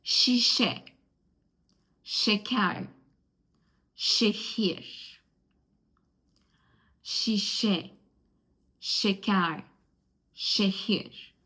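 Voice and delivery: ş as a clear sh in şişe, şeker, şehir; each word alone, falling, with pauses to repeat; demonstrated ş sound. Shown as a demonstration. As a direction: model the sh of ş for learners. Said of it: "Words with şe".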